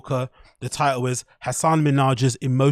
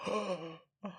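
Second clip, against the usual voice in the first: laughing; 5 semitones higher, 10 dB quieter than usual. Real, not acted. Laughing at his own joke.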